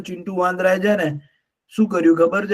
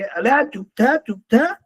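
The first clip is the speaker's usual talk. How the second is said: parrot echo; 6 semitones higher than usual. Acted. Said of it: "પોપટ ... બોલ્યા જ રાખે".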